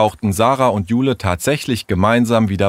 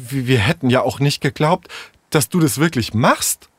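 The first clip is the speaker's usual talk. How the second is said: mildly indignant, hesitant start; 4 semitones higher than usual. Acted. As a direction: protest with a touch of outrage, rising. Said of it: "sagte Tessa empört". (leicht empört)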